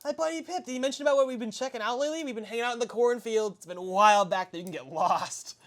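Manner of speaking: high, bright-eyed questions; eager kid voice. Acted. Young son quizzing the guests, high and eager. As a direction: ask like a curious boy.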